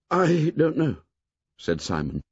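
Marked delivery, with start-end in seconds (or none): 0.1-1.0 put-on nervous boy voice. A narrator's reading. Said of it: "heartbeats were choking him".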